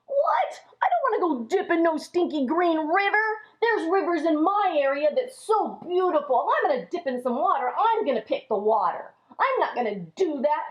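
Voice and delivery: mock indignant yelp, then grumbling; indignant outrage. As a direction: scoff like an offended captain. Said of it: "Now, he was very angry".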